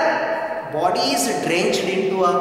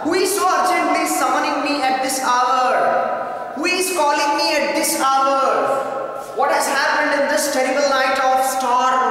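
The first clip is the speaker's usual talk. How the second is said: raised, urgent voice of a startled king; king's alarmed questions; 6 semitones higher than usual. Acted. King demanding who summons him at night, raised and urgent. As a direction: ask like a king woken at midnight.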